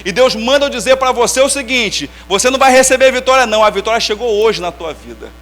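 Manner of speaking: slow, loud prophetic pronouncement, drawn out; profeta pregando. Retold or imitated. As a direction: proclaim it like a prophet at the altar. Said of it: "falou assim". (voz de profeta, lenta e forte)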